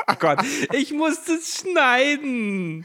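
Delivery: high, slow, loud laughing. Real, not acted. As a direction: speak through a giggle fit. Both in fits of laughter.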